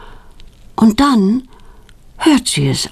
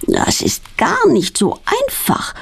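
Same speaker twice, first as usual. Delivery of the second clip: groaning with effort; 9 semitones higher, slower than usual. A narrator's reading. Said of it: "stöhnt sie".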